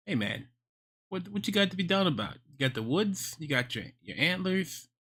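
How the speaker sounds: slipping into a New York accent; pep talk in a loose New York accent; casual, unintended New York accent. Real, not acted. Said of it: "I'm slipping back into my New York accent".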